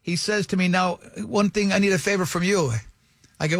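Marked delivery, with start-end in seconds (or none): 0.7-2.7 lightly imitated Italian accent. Italian dealer asking the stranger a favor, light Italian accent. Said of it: "that is the accent he used".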